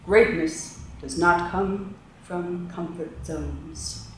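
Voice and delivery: dramatic motivational voice. Pretend. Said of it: "in your most dramatic, motivational voice".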